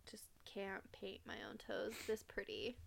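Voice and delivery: whisper. Real, not acted. Admitting why she gets pedicures.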